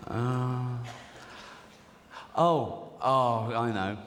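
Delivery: flustered Mary. Acted. Acted Joseph and Mary dialogue.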